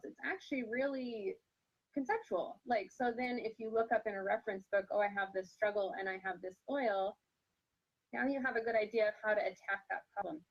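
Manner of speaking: talking through hiccups; speaking with the hiccups. Real, not acted. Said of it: "Sorry, I have the hiccups".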